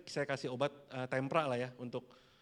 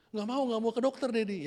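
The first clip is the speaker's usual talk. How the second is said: meniru anak merengek; 8 semitones higher, 3 dB louder than usual. Retold or imitated.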